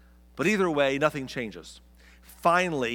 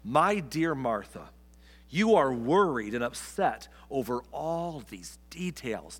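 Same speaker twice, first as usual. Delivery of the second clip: gentle reading; slower than usual. Retold or imitated. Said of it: "But the Lord said to her".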